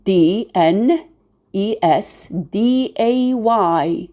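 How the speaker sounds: W E D N E S D A Y, slowly, letter by letter; W, E, D, N, E, S, D, A, Y as separate letter names; spelled letter by letter. Shown as a demonstration. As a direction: spell out W E D N E S D A Y for learners. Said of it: "we spell it as".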